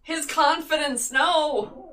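anguished cry. Real, not acted. Player mock despair.

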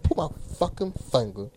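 teasing echo in a put-on voice; mimicking friend's delivery. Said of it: "The fuck you say it like that?".

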